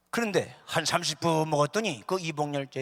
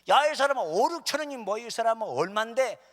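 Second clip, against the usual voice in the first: high, loud incredulous rebuke; exasperated scolding; 6 semitones higher, 6 dB louder than usual. Acted. Friend correcting a cheap price guess, exasperated scolding. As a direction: set a friend straight, high and indignant.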